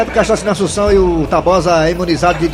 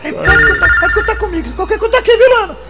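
much higher, hammed-up sensual crooner voice; 13 semitones higher than usual. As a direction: play the would-be radio heartthrob. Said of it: "homem da voz sensual". (voz sensual exagerada, bem aguda)

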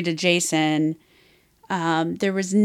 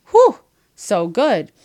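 overheated whew; 3 semitones higher, 8 dB louder, slower than usual. Real, not acted. Reacting to hot book scenes.

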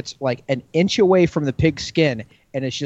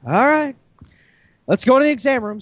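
vet voice; 10 semitones higher, 3 dB louder than usual. Retold or imitated.

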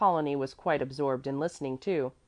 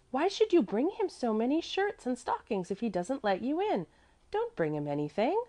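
put-on higher child voice, mildly indignant; 8 semitones higher than usual. A narrator's reading. Mäzli objects to helping Trius, mild childish indignation. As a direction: protest like an affronted little child. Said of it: "cried out indignantly".

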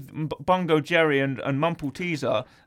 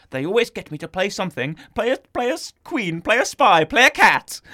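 mock rant; 4 semitones higher, 5 dB louder than usual. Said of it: "she has a rant".

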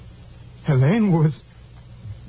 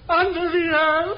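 anguished sob; 6 semitones higher than usual. Acted. Confessing killer breaks down sobbing. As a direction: voice cracking into a cry.

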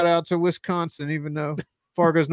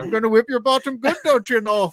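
high, hammed-up Wisconsin dominatrix; Wisconsin accent; 7 semitones higher than usual. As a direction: Midwestern accent, sing-song and playful. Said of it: "A Wisconsin dominatrix".

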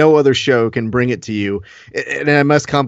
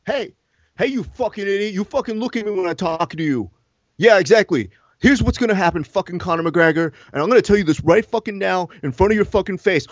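a fight boss tearing into his fighter, higher; angry Dana White; 3 semitones higher than usual. Acted. Promoter yelling at his star fighter, higher angry rant. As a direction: snarl and curse at him like the angry promoter.

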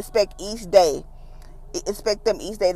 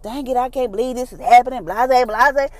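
mild mock exasperation, pitched up; higher, lightly hammed-up venting; acted mad; 4 semitones higher, 4 dB louder than usual. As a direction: act out a frustrated little outburst. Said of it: "You get all mad".

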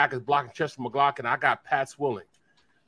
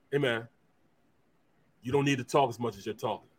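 stern elder; 3 semitones lower, 3 dB louder than usual. Retold or imitated. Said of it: "It's almost like my pops talking to him".

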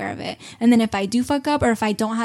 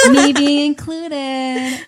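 laughing aside; 4 semitones higher, 7 dB louder, much slower than usual. Real, not acted. Joking about her three friends.

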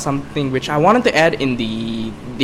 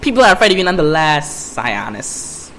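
put-on botched New York-British accent; put-on sly jab, trailing down; Harley Quinn. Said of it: "That was a shitty Harley Quinn impression".

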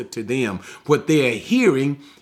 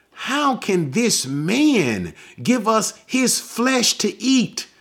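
incredulous Jews; 7 semitones higher, slower than usual. Acted. Jews arguing in Bible reading.

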